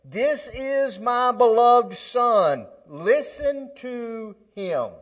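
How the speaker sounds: slow majestic pronouncement; voice from the cloud. Acted. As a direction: boom it out slowly like a heavenly voice. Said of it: "this is what the voice said".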